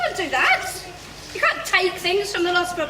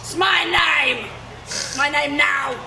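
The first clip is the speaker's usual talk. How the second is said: defiant shout; 3 semitones lower, slower than usual. Acted. Defiant insistence.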